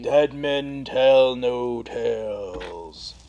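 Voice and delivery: very slow, drawn-out pirate line. Pretend. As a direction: intone it like a movie pirate. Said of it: "what you've got going on there".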